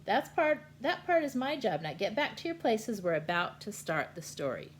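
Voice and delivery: loud bossy host voice; Uncle Sam voice. Acted. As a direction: shoo them back to their places. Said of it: "And Sam says".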